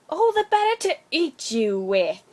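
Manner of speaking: spring the trap with a cry; wolf cries out. A narrator's reading. Wolf leaping at the girl, crying out loud. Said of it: "cried the wolf".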